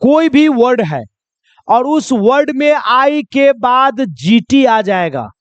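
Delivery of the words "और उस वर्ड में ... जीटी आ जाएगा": slow. Shown as a demonstration. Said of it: "ध्यान से सुनिएगा".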